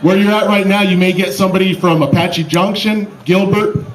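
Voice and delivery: loud crowd announcement; announcer. Real, not acted. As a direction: project to the stadium crowd. Announces mock crash to crowd.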